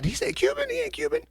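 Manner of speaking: high, quiet disbelieving squeak; thinking aloud in shocked falsetto; incredulous squeak. Retold or imitated. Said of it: "I was like".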